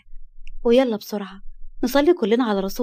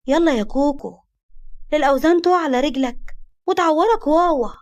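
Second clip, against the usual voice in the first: mock baby talk; 5 semitones higher than usual. Baby talk mocking him.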